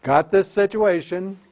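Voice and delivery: calm, even professional tone; nice professional voice. Shown as a demonstration. Teacher shows a professional tone to the principal. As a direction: state it like a steady colleague. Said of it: "in a nice professional voice".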